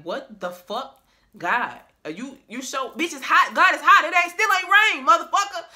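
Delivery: high, loud exasperated yelling at God; Noah cussing God out. Retold or imitated. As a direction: rant up at the sky, fed up with the heat.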